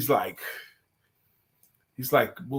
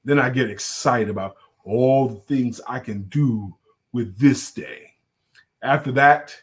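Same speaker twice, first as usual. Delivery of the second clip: Mark Greer's voice; 5 semitones lower than usual. Retold or imitated. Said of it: "I'm doing Mark Green's voice".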